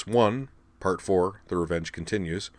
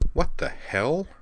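higher, rising startled question; baffled exclamation; 8 semitones higher, slower than usual. A narrator's reading. Girl jumped on by a mystery person, baffled. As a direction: let the pitch climb sharply at the end.

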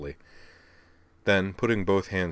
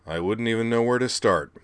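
baffled admission; 4 semitones higher than usual. Acted. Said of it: "Blaster admitted".

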